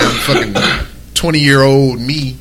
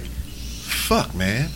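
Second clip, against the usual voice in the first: breathy curse; 11 dB quieter than usual. Real, not acted. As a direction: let the curse out as a whisper. Exasperated sigh at ex-wife memory.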